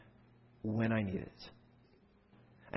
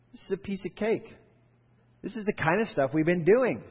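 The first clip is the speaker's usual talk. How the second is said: confident; 7 semitones higher, 4 dB louder than usual. Pretend. What disciples should have said.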